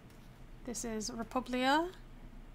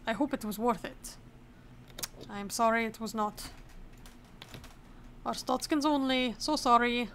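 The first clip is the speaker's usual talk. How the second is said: mock Arstotzkan accent for inspector and traveler; put-on Arstotzkan accent. Inspector turning away someone who queued eight hours, mock Arstotzkan accent. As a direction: lightly act a border exchange in an Arstotzkan accent. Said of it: "I'm so sorry for the accent".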